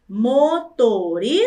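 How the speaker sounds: "motoristas" slowly broken into four syllables. Shown as a demonstration. Teacher showing pupils four syllables, slowly split. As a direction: separate every syllable of "motoristas".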